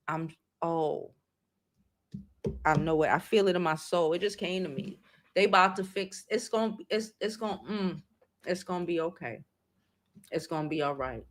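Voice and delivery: soft, choking-up reassurance; getting emotional. Real, not acted. Vlogger tearing up while reassuring her viewers, softly. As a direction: hold back tears as you reassure. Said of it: "I get emotional and shit".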